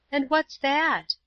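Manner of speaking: put-on high, slow, sympathetic girl's question. A narrator's reading. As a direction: ask it gently concerned, high and drawn out. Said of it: "Paula's voice was sympathetic".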